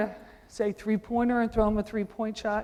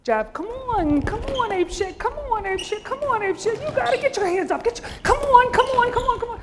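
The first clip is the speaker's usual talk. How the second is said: loud, high courtside shouting; coaching yell; 13 semitones higher, 7 dB louder than usual. Real, not acted. Coach yelling at his players during the drill, loud and high. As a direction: drive them on at the top of your voice.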